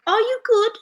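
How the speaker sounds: high, poorly imitated accent; bad country singer accent. Singer asking whether she sings well, bad imitated accent. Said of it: "doing a very bad country singer accent".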